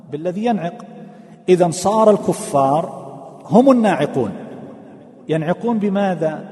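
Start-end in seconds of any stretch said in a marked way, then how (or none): 1.5-4.3 laughing. Real, not acted. Teacher draws an ironic conclusion.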